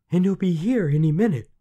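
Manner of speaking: high, loud frantic voice; panicked. A narrator's reading. Queen dreading the little man's arrival, panicked. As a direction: blurt it out in panic.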